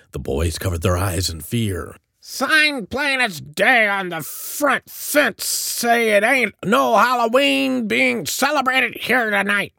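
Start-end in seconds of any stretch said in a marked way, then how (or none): 2.2-9.7 very high, slow screechy rant; snapping. A narrator's reading. Eliza Grubb ordering Halloween trespassers off, snapping. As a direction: scold the intruders in a cranky, high-pitched voice. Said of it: "Eliza Grubb snapped".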